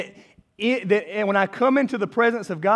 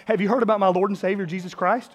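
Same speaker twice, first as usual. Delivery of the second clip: mock street evangelist. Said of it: "being like".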